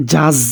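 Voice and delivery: জাজ with buzzed z sounds; জাজ said like English "jazz"; buzzing Z. Shown as a demonstration. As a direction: demonstrate the buzz in জাজ. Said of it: "জাজের একটা আওয়াজ হবে".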